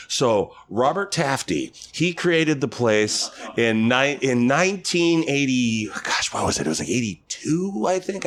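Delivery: slow, high, drawn-out know-it-all voice; tipsy older lady. Retold or imitated. Older lady at bar recounting park history, slow tipsy voice. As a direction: imitate a tipsy woman groping for facts. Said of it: "had a couple pops in her".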